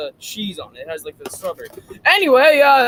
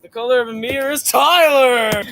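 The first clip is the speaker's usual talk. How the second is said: mocking imitation; 4 semitones higher, 4 dB louder than usual. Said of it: "Stop mocking me".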